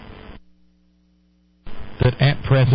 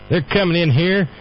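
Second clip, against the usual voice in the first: a put-on bigot's accent that misses the mark on "They're coming in here"; wrong accent; 4 semitones higher than usual. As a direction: start "They're coming in here" in a mock accent, then drop it. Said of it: "I'm sorry, wrong accent".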